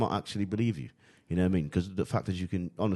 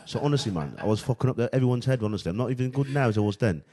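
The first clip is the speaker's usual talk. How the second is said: London accent, a touch louder; British accent; 2 semitones higher, 4 dB louder than usual. Shown as a demonstration. Telling friends about his school year, in a put-on British accent. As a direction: show off the fake British accent. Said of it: "my Jamaican accent is not as convincing as my British one".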